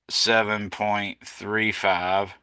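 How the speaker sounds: slow, careful restating; slow correction. Shown as a demonstration. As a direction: spell out each number slowly. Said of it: "my fault".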